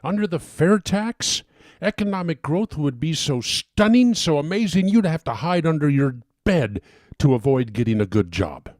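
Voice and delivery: rising excitement, pitch up on the pitch; worked up. Real, not acted. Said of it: "I'm getting worked up".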